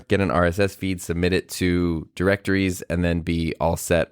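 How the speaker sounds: about to sneeze; holding in a sneeze. Real, not acted. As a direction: talk while holding back a sneeze. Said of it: "I'm, like, in the middle of about to sneeze".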